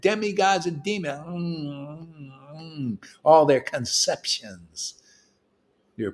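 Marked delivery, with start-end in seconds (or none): 1.3-3.0 eating sounds. Retold or imitated. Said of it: "He's eating it".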